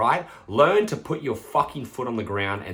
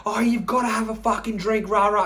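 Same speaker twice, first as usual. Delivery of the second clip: high, hammed-up heated pestering; mock yelling; 12 semitones higher, 4 dB louder than usual. Friends pushing a drink on someone, mock yell. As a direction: caricature an argument, pitch way up. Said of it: "you're yelling at each other".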